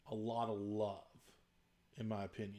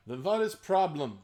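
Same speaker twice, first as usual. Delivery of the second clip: put-on Russian accent; 2 semitones higher than usual. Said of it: "orcs with a Russian accent".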